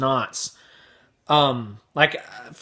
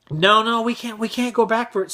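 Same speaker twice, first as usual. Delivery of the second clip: higher-pitched imitated mother; placating mom; 8 semitones higher than usual. Mom to screaming kid in cart, high placating voice. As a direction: plead gently as a flustered mom.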